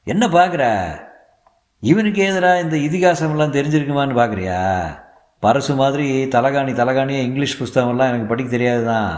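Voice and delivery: proud, chuckling elder husband; teasing husband. Acted. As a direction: tease her for doubting him. Husband teasing wife's stare.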